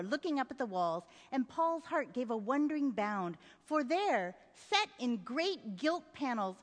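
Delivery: measured literary read-aloud; storytelling read with voiced characters; story narration. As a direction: read the novel passage to an audience. Reads novel passage aloud.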